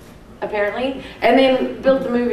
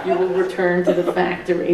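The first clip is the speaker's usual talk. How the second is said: lightly put-on American accent; 3 semitones lower than usual. Shown as a demonstration. Actress reciting her only film line, American accent. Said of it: "That's my American accent".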